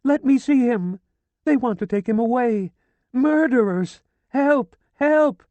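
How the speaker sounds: high, loud shrieks for help; desperate screaming. A narrator's reading. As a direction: fight the gendarmes and scream. Dragged away screaming by gendarmes.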